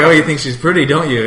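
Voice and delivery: high, loud mock teasing of a kid. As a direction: tease a little kid about a crush. Teasing nephew in retold quote.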